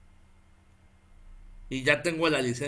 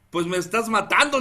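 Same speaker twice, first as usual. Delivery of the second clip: retold exasperated plea, slightly raised; queja desesperada; 3 semitones higher, 4 dB louder than usual. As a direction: plead your case to the officer, mildly indignant. Reclama al policía por la multa. (reclamo desesperado, imitado)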